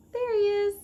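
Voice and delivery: light up on finding him; delighted find. Real, not acted. Mom pointing out the tiny seed to kids, delighted.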